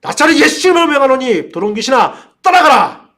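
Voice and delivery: high, loud exorcism command; full-force demonstration of casting out a spirit; bold shout. Shown as a demonstration. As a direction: shout the rebuke boldly, peaking on the last word. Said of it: "하고 아주 담대하게 외치셔야 됩니다".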